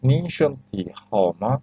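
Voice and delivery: slowly, syllable by syllable; teacher reading the sentence slowly aloud; slow model reading. Shown as a demonstration. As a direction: say it slowly so students can follow.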